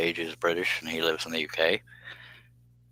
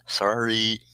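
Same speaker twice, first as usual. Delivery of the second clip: higher-pitched sorry through a laugh; laughing apology; 4 semitones higher than usual. Real, not acted. Host says sorry for his Irish mix-up, laughing. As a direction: apologize while giggling.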